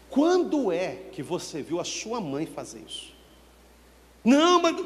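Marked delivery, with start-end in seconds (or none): 4.2-4.8 high, loud whiny "Não, mas"; child protesting. Retold or imitated. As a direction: cut in like a child caught out.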